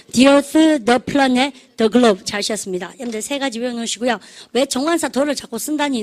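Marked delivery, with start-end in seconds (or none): 0.1-2.2 very slow list drill; slow choral model. Shown as a demonstration. Teacher leads the class through the three names, very slow. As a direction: stretch each noun out very slowly. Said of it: "The earth, 시작".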